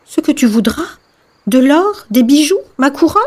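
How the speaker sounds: high, questioning princess voice; offering princess. Acted. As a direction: play a princess tempting with gifts. Princess offers the frog gifts. (princesse qui propose, voix aiguë)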